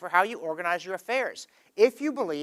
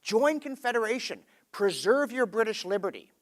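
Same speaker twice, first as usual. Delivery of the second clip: higher-pitched rallying debater, mildly acted; Confederation supporter; 3 semitones higher than usual. People debating Confederation urge joining, mildly acted rallying call. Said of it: "you see people saying".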